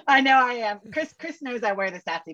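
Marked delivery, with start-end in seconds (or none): 0.1-0.8 laughing admission. Real, not acted. Owning up to sassy pants to the host, laughing. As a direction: talk through chuckles.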